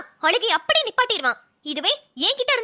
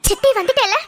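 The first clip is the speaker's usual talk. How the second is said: put-on coaxing baby talk; 3 semitones higher than usual. Aunt coaxing the crying baby.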